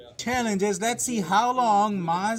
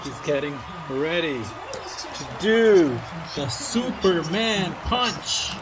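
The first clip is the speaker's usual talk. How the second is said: hyped ringside call, drawn out; wrestling commentator; 4 dB louder, slower than usual. Pretend. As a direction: build it up like ringside. Dad narrating the toy match.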